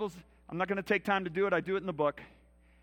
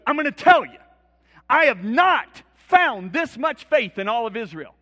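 louder, slowed, ringing declaration; preached shout; 4 semitones higher, 11 dB louder than usual. Retold or imitated. Preacher voices Jesus praising the officer's faith, slow loud shout. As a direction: proclaim it to the whole crowd.

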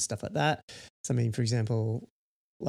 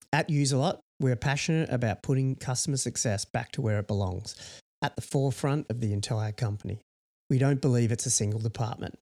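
measured, formal reading of prepared copy; mission statement read-out. Real, not acted.

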